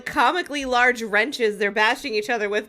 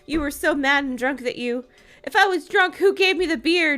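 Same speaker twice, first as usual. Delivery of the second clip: snapping back; 6 semitones higher than usual. A narrator's reading. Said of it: "Joan shot back".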